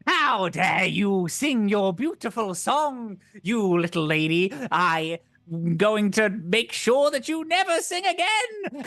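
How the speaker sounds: slow, menacing witch; a witch scolding the singer. Acted. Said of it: "let me do a witch voice".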